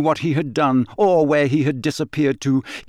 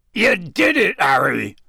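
high, excited hoarse exclamation; a touch of hoarse, overjoyed praise; hoarse cheer; 5 semitones higher than usual. A narrator's reading. Hagrid congratulating Harry after the task, hoarse. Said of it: "said Hagrid hoarsely".

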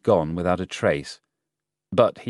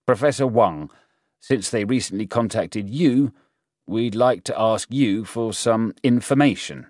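lightly voiced general, raised pitch and firm projection; brief them a little louder and higher, in command; General Chung; 5 semitones higher, 4 dB louder than usual. General briefing a professor on an investigation, lightly voiced authority.

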